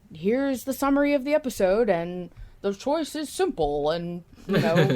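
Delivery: hammed-up narrator voice laying out the choice; imitating Booth John. To the co-host, mock announcer voice of Booth John. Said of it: "him being like".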